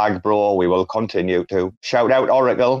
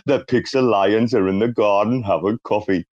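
Big Brother narrator voice. Retold or imitated. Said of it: "I was doing it in his voice".

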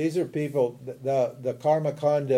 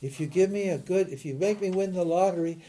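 lightly voiced plea, rising higher for the offer; mock bargaining prayer; 3 semitones higher than usual. Teacher imitating someone making business with God, mock pleading. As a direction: strike a deal in a mildly hammed-up prayer. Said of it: "Business, you know, making business with God".

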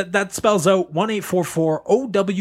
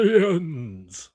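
vampire voice; 3 dB quieter than usual. Acted. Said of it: "I said that like a vampire".

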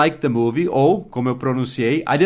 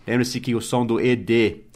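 usual speaking voice

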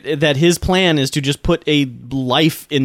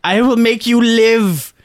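ecstatic mad scientist; 8 semitones higher than usual. Retold or imitated. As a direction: proclaim it like a gleeful madman. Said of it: "getting so excited, like orgasmic".

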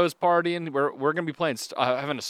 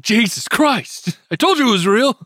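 shocked witness; 9 semitones higher, 8 dB louder than usual. Pretend.

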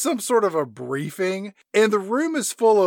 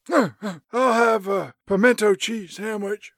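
put-on slow, drowsy old man; half-asleep mumbling old man; sleepy old man voice; 4 semitones higher, slower than usual. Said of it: "Henry Fonda, do you have anything".

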